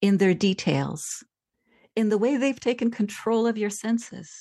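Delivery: measured, lyrical reading of her own prose; reading aloud. Acted. Author reading her memoir passage to the interviewer, lyrical and measured.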